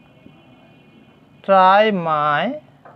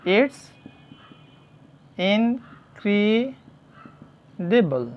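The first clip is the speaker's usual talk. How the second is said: drawn out; 4 dB quieter, much slower than usual. Shown as a demonstration. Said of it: "তাহলে এটা অবিশ্বাস্য".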